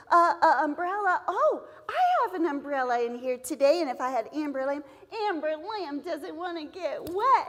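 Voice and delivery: a touch of playful storyteller; lightly lively classroom story; storytelling to kids. Shown as a demonstration. Teacher acting out the umbrella story for students. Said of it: "you would say to the students".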